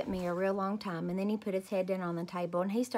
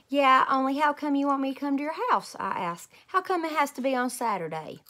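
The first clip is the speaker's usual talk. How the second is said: put-on loud, higher questioning kid; suspicious little girl; 7 semitones higher, 5 dB louder than usual. A narrator's reading. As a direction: press grandpa with suspicion.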